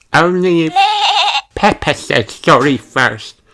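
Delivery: high stubborn little sheep voice; stubborn demand. A narrator's reading. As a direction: throw it right back. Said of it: "says Susie".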